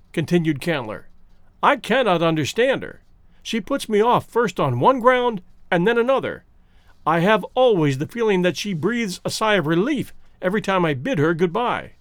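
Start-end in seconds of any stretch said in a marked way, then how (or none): 1.6-11.9 a touch higher, lightly voiced frustrated suitor; a hint of a puzzled, put-off young man; lightly voiced anxious suitor. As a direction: suitor pleading his case to the professor, lightly voiced. Candler complains about Jane.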